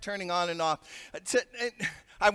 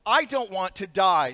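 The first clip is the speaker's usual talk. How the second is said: retold scream; 5 dB louder than usual. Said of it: "screamed out at the top of her lungs".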